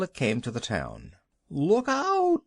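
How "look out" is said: high, loud panicked shriek; screamed warning. A narrator's reading. Woman screams at the wagon to stop. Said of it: "screamed a voice".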